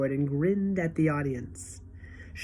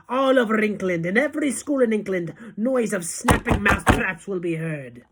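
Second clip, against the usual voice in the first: raised, relishing witch voice; gloating witch; 3 semitones higher than usual. Acted. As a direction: savour every snap of the traps. Witch describes her plot.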